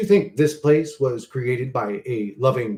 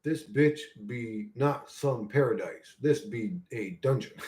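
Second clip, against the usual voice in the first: slow dark murmur; 3 semitones lower, 7 dB quieter, slower than usual. Real, not acted.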